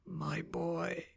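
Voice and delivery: high, soft, drawn-out moan; thin, grieving wail, held back. A narrator's reading. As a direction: moan it weakly like a dying father. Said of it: "he moans".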